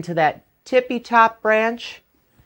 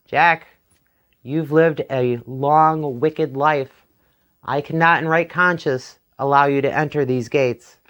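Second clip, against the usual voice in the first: stern Saint Peter; 2 semitones lower than usual. Acted. Saint Peter judges Jack.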